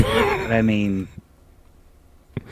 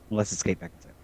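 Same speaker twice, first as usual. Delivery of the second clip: quick, laughing under the breath; breathy laughing quip; laughing aside; 11 dB quieter, much faster than usual. Real, not acted. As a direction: giggle it out fast.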